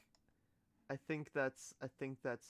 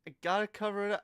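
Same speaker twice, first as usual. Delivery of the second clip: lightly voiced cat, a bit higher and louder; cat's inner voice; 7 semitones higher, 9 dB louder, faster than usual. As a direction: voice the cat fussing to cover it up. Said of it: "It's like".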